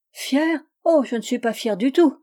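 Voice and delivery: high, lilting protest; singsong cry. A narrator's reading. Rose Eyre denying she is proud, singsong cry. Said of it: "cria Rose Eyre d'une voix chantante".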